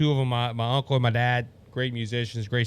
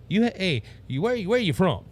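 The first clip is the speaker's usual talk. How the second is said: higher-pitched imitation Texas accent; retold question in a Texas accent; thick Texas accent; 4 semitones higher than usual. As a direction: lightly mimic a Texan stranger's accent. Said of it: "with a very thick Texas accent".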